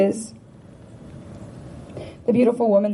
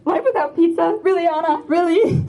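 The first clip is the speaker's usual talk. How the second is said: playful imitation of a friend's Spanish accent, pitched higher; retelling a friend's Spanish-accented reply about pizza, higher mock-incredulous; 7 semitones higher than usual. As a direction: mimic her Spanish accent, higher and teasing. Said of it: "And in her Spanish accent".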